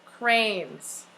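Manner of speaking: slow, evenly spaced words for copying; slow dictation. Shown as a demonstration. Teacher to class, slow dictation pace. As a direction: spell it out slowly so they can write.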